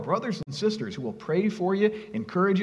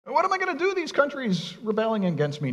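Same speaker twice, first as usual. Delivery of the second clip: high, frantic hand-wringing worry; hammed-up panicked fretting, much higher; mock panic; 11 semitones higher than usual. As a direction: play a God fretting in mock panic, pitched way up. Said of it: "Is God up there wringing his hands".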